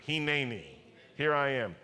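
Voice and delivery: Hineni said hee-NEH-nee, falling; Hebrew Hineni. Shown as a demonstration. Pastor teaching the congregation a Hebrew word, Hineni said hee-NEH-nee, falling. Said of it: "Why don't you say that in Hebrew".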